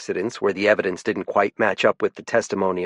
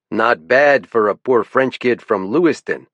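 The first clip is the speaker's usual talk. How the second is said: a hint of a French-Canadian lilt, louder; lieutenant with a faint French-Canadian accent; proud boast in a light French-Canadian accent; 2 semitones higher, 4 dB louder than usual. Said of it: "he liked to say in a francophone lilt".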